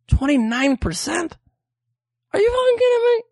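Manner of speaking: disbelieving, cracking yell; outraged shout. Real, not acted. Outraged at the interest rate.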